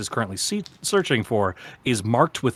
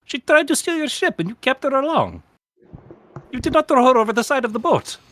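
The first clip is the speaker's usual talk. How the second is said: incredulous queen; 12 semitones higher, 4 dB louder, faster than usual. Acted.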